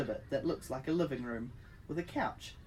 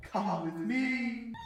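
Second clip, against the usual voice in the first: high, very slow robot command; 7 semitones higher, much slower than usual. A narrator's reading. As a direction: order it like a machine. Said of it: "the robot says".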